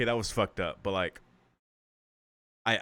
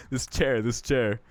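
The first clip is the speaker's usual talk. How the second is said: frenzied repetition; 2 semitones higher, much slower than usual. Acted. Character's fixation escalates while smashing chair.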